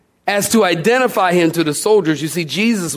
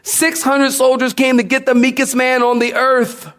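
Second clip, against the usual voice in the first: higher, amazed, with a laugh; excited, incredulous; 6 semitones higher than usual. Shown as a demonstration. Preacher to congregation, amazed and laughing. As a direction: marvel at the odds, laughing. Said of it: "get this".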